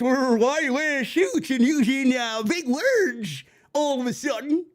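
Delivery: mock Southern accent. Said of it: "mocked fans who are asking him with a Southern accent".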